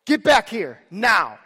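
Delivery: loud, slow, stern dad command; dad stopping his daughter at the street, loud and stern. Retold or imitated. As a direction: drop into the no-nonsense father voice. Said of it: "had to get the dad voice".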